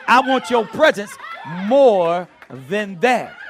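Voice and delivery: loud, high preaching cry; impassioned prayer. Acted. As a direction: belt out the plea to God. Repeats prayer at full force.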